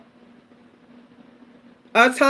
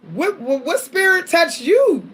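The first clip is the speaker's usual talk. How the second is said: mock indignant question; 5 semitones higher, slower than usual. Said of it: "what I was ready to say".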